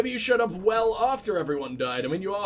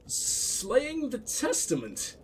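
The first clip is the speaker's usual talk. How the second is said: incredulous repeat; 2 semitones higher, 6 dB quieter, much slower than usual. Real, not acted. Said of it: "talking in complete and utter bullshit".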